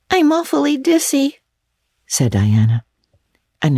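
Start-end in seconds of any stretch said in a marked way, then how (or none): 0.1-1.4 dogged and dazed; stupidly but determinedly. Acted. Tipsy girl refusing her friend's tea, stubborn and dull. Diana dizzy.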